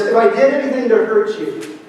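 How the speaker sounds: a vague, hedged apology at normal pace; vague half apology. Shown as a demonstration. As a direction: offer the apology like you hardly mean it. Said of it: "It's not something like this".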